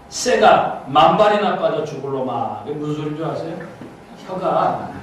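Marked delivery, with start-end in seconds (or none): 0.1-2.6 reading a curse. Retold or imitated. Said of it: "따라 읽어봤어요".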